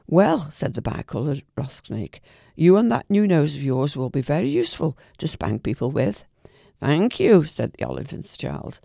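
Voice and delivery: lively bedtime storytelling voice; storyteller reading Kipling aloud; story narration. A narrator's reading. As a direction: read it like a bedtime story to a child.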